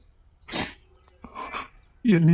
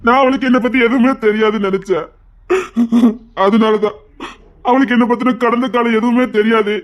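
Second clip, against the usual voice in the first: crying; 2 semitones higher, 3 dB louder than usual. Acted. Son cries out his fears.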